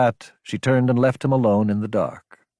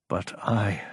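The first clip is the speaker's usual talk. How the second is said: "But I" set apart, soft and deliberate; emphasizing each word; 5 dB quieter than usual. A narrator's reading. Lieutenant confessing helplessness, "But I" word by word. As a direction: give each of "But I" its own weight. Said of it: "he emphasized each word".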